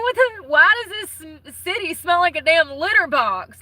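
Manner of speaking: squeaky, indignant retelling of his own complaint; high mock outrage. Talking to viewers, retelling his own disgust at the city smell, high and outraged. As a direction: pitch it way up, like a scandalized version of yourself.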